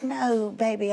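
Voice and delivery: retold sweet denial to a child; lightly acted motherly reassurance; mock reassurance. Reassuring daughter she isn't mad.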